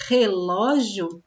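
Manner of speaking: relógio with a rough throaty R, slowed; strong initial R. Shown as a demonstration. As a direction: scrape the R at the start of relógio. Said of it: "Eu nunca vou escrever".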